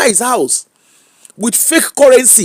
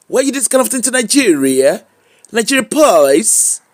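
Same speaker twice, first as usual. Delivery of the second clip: broad Nigerian police voice; local Nigerian accent; 2 semitones higher than usual. Retold or imitated. Vlogger showing how Nigerians really speak, police accent. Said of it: "That's how we they speak".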